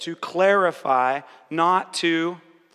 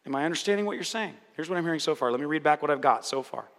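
modeled reflective listening; 2 semitones lower, faster than usual. Shown as a demonstration. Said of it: "And just".

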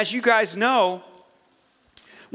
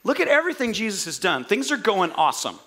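acted-out eager disciple, raised pitch; confident faith; 3 semitones higher than usual. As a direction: declare it like a follower who's all in. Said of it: "Look at the confidence and the faith".

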